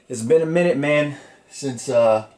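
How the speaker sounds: winded, breathy between words; out of breath. Real, not acted. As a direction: talk like you just climbed stairs. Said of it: "why do I sound like I'm out of breath".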